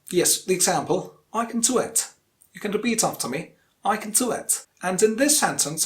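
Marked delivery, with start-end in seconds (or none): 1.3-2.1 weak "can", stressed "do". Shown as a demonstration. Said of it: "only one consonant word". 3.8-4.7 "can" unstressed before "do"; stress on DO. Shown as a demonstration. Teacher modelling for repetition, unstressed "can". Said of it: "the rest is unstressed".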